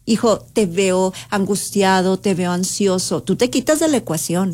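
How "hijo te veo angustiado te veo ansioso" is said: gentle empathetic mother. Shown as a demonstration. Advisor shows a mother calmly naming her son's anxiety. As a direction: lean in and name his worry slowly. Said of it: "puedes verlo a él".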